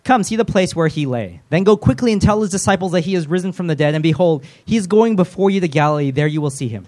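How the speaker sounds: high, loud, hammed-up angel announcement; angel's proclamation. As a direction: declaim it like a grand heavenly herald. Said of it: "I really don't think they speak like that".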